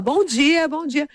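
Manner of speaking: high, chirpy imitated hello; eager child's greeting. Daughter greeting two unknown ladies, imitated eager high voice. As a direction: greet everyone like a keen little girl.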